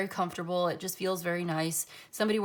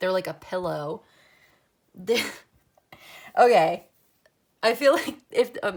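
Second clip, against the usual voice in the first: louder talking through laughter; 7 dB louder than usual. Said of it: "I'm sorry I'm laughing".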